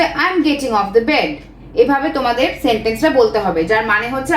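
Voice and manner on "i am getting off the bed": slow, careful, word by word; slow model sentence. Shown as a demonstration. Teacher modelling the sentence for students, slow. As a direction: say it slowly so they can repeat. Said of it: "বলতে হবে যে".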